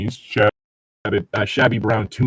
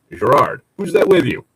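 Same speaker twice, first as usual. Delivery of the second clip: put-on older man; 3 semitones higher, 4 dB louder than usual. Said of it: "interrupted by an older man's voice".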